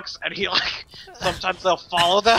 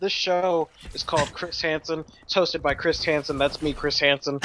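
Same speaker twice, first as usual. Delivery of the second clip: low, measured TV host parody; Chris Hansen; 3 semitones lower, 3 dB quieter than usual. Acted. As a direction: introduce yourself like a solemn presenter. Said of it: "have our own Chris Hansen show".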